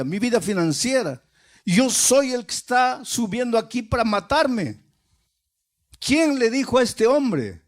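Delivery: as if the words hit him hard; stunned disbelief. Retold or imitated. Suicidal man hearing the radio sermon, stunned disbelief.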